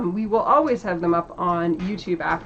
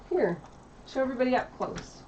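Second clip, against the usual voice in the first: ordinary talk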